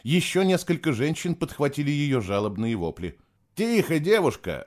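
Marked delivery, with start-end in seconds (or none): 3.5-4.6 raised, sharp order for silence; growled reprimand. A narrator's reading. Nicholas hushing the panicking girl, growling. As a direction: silence her with a sudden growl. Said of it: "рыкнул на неё Николас".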